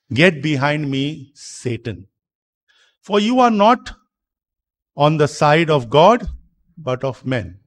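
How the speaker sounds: measured reproof, firm in places; retold rebuke. Preacher quoting Jesus rebuking Peter, mildly stern. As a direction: quote a stern correction with restraint. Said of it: "He rebukes Peter now".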